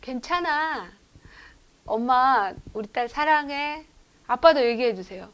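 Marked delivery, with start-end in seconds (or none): 0.0-3.8 reassuring mother. Shown as a demonstration. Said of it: "이렇게 해주세요".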